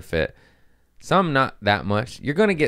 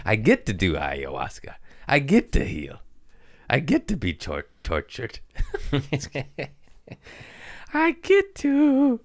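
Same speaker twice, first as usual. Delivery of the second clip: laughing; 6 semitones higher than usual. Real, not acted. Ironic gratitude, laughing through.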